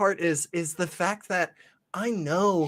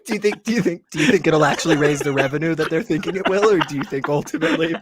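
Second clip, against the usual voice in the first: put-on fast, earnest policy talk to a child; mock grown-up; 4 dB louder, faster than usual. Adult quizzing a child on fiscal policy, quick and deadpan. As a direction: rattle off a pundit's question at a toddler. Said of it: "being like".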